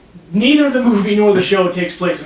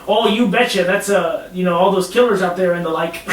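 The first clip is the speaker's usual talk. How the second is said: "Oh, you betcha!" in a light mock Minnesota lilt; overly polite Minnesotan, lightly done; Minnesota accent. Mocking sinister politeness, a light Minnesota accent.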